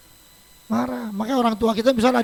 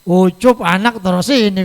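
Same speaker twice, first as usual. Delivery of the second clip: louder, slow call across the house; tired grandparent calling out; 2 semitones lower, 6 dB louder than usual. Retold or imitated. Grandmother calling her grandson to take the baby, loud and slow. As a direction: call out slowly and loudly, a worn-out grandma. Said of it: "kalau dia lagi capek ngeluh juga".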